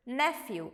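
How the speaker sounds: "nephew" as NEFF-yoo; model pronunciation. Shown as a demonstration. Teacher answering how to read it, careful model pronunciation. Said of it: "How do you read this?".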